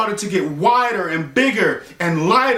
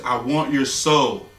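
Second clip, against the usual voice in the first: sinister soul collector; 7 semitones lower, slower than usual. Retold or imitated. Soul collector repeats demand.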